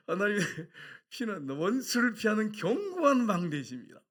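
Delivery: loud, high, slow scripture declaration; preacher driving the verse home, stretched out; emphatic proclamation. Real, not acted. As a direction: proclaim the verse with full force.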